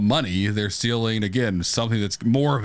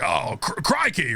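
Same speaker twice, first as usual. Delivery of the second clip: mock Aussie; 5 semitones higher than usual. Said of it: "That's Australian".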